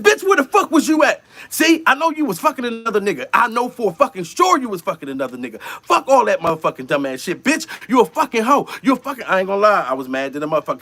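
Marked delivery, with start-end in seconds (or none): 0.0-9.2 high, furious yelling at her; angry yelling. Retold or imitated. Yelling at his girlfriend who ignored his birthday, furious. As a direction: rip into her for ignoring him. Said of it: "first thing I said".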